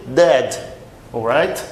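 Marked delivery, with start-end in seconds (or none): 0.1-0.6 "dead" with a dry, hard D; drier D. Shown as a demonstration. Teacher contrasts it with that, "dead" on dry D. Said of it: "bem mais seco".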